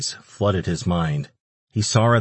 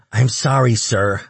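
higher, louder voice of a frightened little demon; stammering apology; 4 semitones higher, 5 dB louder than usual. A narrator's reading. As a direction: plead nervously as a cowering creature. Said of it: "the little shit stammered".

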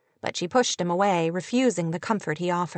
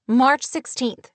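slow, louder, higher emphasis; emphatic; 5 semitones higher, 4 dB louder, slower than usual. Acted. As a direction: spell it out, outraged. Kate furious, emphatic.

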